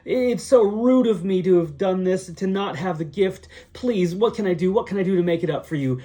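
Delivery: high-pitched, frantic apologizing; freaking-out Gollum. Acted. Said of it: "Gollum starts freaking out".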